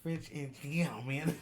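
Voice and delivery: a lighter put-on German accent; mock German accent. Performs it on request in a German accent. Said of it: "say it one more time".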